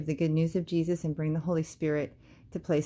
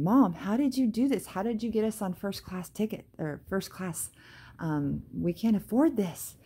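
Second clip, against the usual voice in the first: higher, eager retold questioning; excited; 4 semitones higher than usual. Daughter pressing her mom about first class, excited. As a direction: marvel at the surprise. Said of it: "I guess I was just really joyful".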